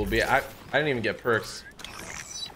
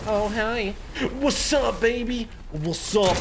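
mock flirty greeting; 9 semitones higher, slower than usual. Greeting hidden enemy in bush.

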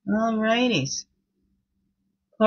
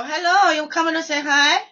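high sing-song pet voice; high cooing voice for a pet; 10 semitones higher, 4 dB louder than usual. Real, not acted. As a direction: coo up high at the cat. Greeting her cat.

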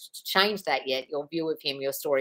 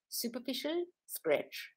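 put-on Austrian accent; 6 semitones higher, 12 dB quieter, much slower than usual. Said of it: "in her Austrian accent".

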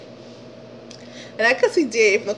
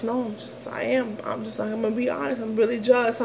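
mumbled confession; 6 dB quieter than usual. Retold or imitated. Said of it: "Why are you jealous?".

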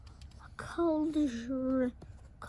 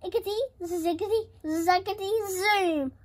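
quick, raised incantation building to the last word; casting a spell; 4 semitones higher, faster than usual. A narrator's reading. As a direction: chant the magic words briskly. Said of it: "he muttered a spell".

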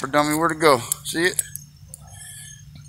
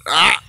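sudden high, loud "ah!" of warning; sharp warning "ah!"; 6 semitones higher, 6 dB louder than usual. Real, not acted. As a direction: cut in with a quick, loud "ah!" to stop the dog. Warns dog not to kill.

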